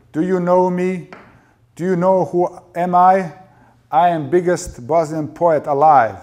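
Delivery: high, very loud boastful rant; bellowed drunken boast; indignant shouting. A narrator's reading. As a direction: shout it as a wounded, self-important poet. Dado boasts, screaming at wife.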